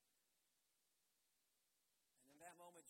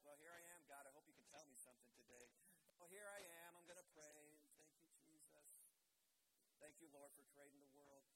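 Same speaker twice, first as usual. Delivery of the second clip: sarcastic; 3 semitones lower, 3 dB quieter than usual. Retold or imitated. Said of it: "And I'm being sarcastic".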